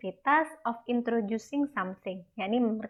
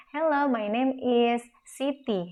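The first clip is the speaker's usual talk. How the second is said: slow model sentence; 3 semitones higher, slower than usual. Shown as a demonstration. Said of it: "bisa kalian ganti misalnya".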